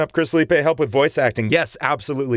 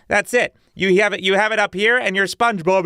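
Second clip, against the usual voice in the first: SpongeBob voice; 6 semitones higher than usual. Retold or imitated. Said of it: "It's not very good".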